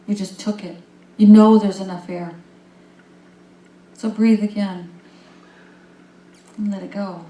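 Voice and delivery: calm, unhurried breathing guide; guided breathing. Acted. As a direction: lead the room through each breath gently. Leads a breathing exercise.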